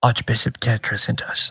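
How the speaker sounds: whispered voice. Passing a line to one person privately during a role-play scene: whispering. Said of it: "I'll whisper that to you".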